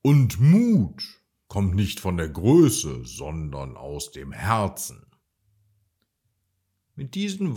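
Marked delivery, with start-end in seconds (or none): 0.0-5.1 encouraging. Acted. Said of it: "Marie ermutigte ihn".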